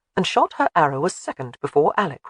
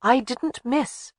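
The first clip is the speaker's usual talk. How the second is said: countering; 7 semitones higher, much slower than usual. A narrator's reading. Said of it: "she countered".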